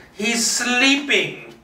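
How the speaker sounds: high, slow, hollow He's sleeping; a creepy stillness in the old woman's voice; eerie calm. Acted. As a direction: say it frozen and empty, slowly. Martha freezes, then answers.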